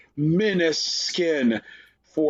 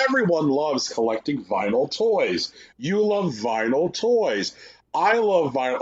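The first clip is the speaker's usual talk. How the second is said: mock sales pitch; 2 semitones higher than usual. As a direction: parody a presenter pushing product. Mocking the showcase's repeated sales pitch.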